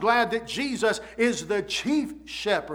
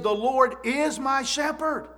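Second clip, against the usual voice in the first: higher pitch with weight on "is"; stress on "is"; 4 semitones higher than usual. Retold or imitated. Preacher quotes David to the congregation, stress on "is". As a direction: lean firmly on "is".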